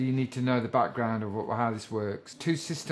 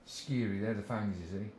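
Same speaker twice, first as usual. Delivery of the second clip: scary said as skeery in a broad Aussie accent, rhyming with theory; 4 semitones lower, 8 dB quieter than usual. Shown as a demonstration. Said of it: "saying scary in an Australian accent or a crap Aussie accent".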